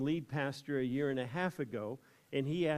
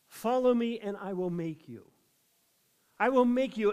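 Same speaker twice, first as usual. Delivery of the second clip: higher and louder, proclaiming; forceful preaching; 6 semitones higher, 6 dB louder than usual. Acted. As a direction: call it out like a summons. Quoting Jesus forcefully.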